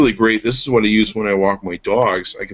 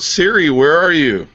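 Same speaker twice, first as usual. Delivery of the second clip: calling out, higher and drawn out; mock yell; 7 semitones higher, 4 dB louder, slower than usual. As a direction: slowly call for a lost phone assistant. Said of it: "I just yell out".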